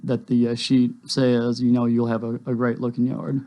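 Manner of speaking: usual speaking voice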